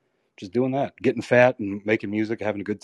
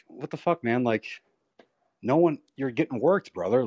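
retold angry outburst, a bit higher; exasperated mock rant to yourself; mad rant; 3 semitones higher than usual. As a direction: recall the anger at being lied to, half-played. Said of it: "I just got really mad".

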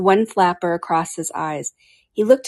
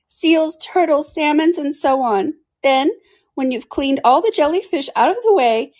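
high-pitched creature voice; Mock Turtle, earnest; 9 semitones higher, 4 dB louder than usual. A narrator's reading.

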